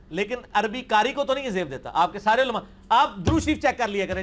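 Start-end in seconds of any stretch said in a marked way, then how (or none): none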